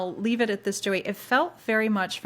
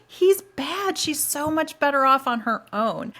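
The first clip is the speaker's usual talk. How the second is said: emphatic insistence; 8 semitones higher, 4 dB louder than usual. Retold or imitated. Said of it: "I'm like".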